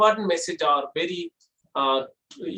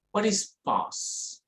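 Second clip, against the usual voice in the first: slowed down, softer, drawn-out question; 2 semitones higher, 6 dB quieter, slower than usual. Shown as a demonstration. Teacher showing a pause, slowed and soft. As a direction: let it hang, slow and quiet. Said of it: "I have to reduce the speed of the words".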